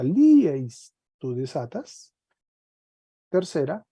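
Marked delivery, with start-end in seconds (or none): 0.0-0.9 lieis said again loudly, falling; repeated form. Shown as a demonstration. Teacher repeating the form so students notice, loud. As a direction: repeat lieis to stress the changed ending. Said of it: "mire cómo cambió la desinencia".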